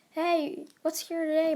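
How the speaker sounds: lightly acted hail to a new acquaintance; calling out. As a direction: pitch it up to catch his attention. Girl runs out calling to him.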